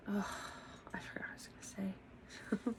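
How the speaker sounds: breathy whisper to herself. Real, not acted. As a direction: whisper it as a forgetful aside. Forgetting aside to herself.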